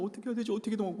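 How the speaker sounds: mock whimpering. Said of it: "막 울먹이면서".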